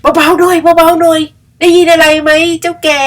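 high, slow hushing crow voice; a little crow shushing the old buffalo. Acted. Crow hushes buffalo in story.

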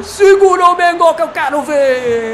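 building from laughing to roaring; explosive goal commentary. Real, not acted. Goal scored, building celebration.

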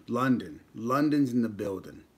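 lightly put-on London accent; mock UK accent. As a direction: announce it in a playful British accent. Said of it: "If I do a U K accent?".

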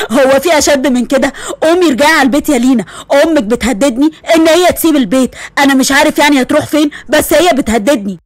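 a lightly voiced tired father, a bit fast; father pleading with daughter to come home; weary father. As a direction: sigh it out like a worn-down dad.

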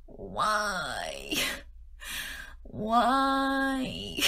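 long drawn-out, whiny why; mock wailing. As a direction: lament it in hammed-up despair. Mock despair at own brain.

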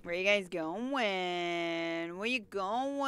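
tag. Pretend. Calling after game characters.

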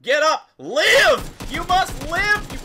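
loud, dramatic urging; will a teammate back to life; urgent pleading. Real, not acted. Player reviving downed teammate, urgent dramatic pleading.

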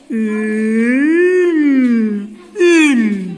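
"Ül" said alone, loud, lengthened; syllable by syllable. Shown as a demonstration. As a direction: stretch out "ül" as one beat. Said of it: "Haydi ilk heceyi yazalım". (heceleyerek "ül")

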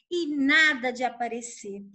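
usual speaking voice

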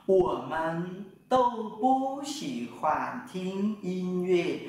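drawn-out syllables one by one; teacher modeling a long sentence very slowly; very slow Mandarin. Shown as a demonstration. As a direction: spell the sentence out slowly in sound. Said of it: "Chúng tôi đều không thích nghe nhạc".

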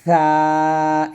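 সা with tongue on upper teeth edge, lisped th; thin tha. Shown as a demonstration. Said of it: "এরকমভাবে উচ্চারণ করবেন".

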